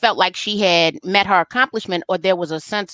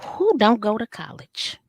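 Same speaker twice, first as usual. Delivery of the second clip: laughing delight; 3 semitones higher than usual. Retold or imitated. Delighted at fine brothers.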